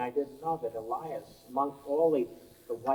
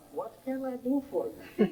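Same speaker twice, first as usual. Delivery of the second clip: imitated Russian accent, higher and laughing; laughing Russian accent, pitched up; 12 semitones higher than usual. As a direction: put on a light Russian accent for the landlady. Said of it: "with a Russian accent".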